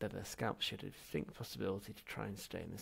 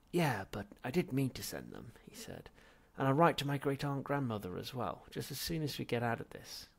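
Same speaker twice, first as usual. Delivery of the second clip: high, loud eager protest; nervous pleading; 4 semitones higher, 6 dB louder than usual. Acted. Zaphod justifying himself to ghost, anxious. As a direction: protest too much.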